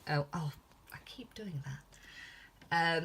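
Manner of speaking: whispered self-correction; breathy whispered aside; whispering. Real, not acted. Catching her own habit aside.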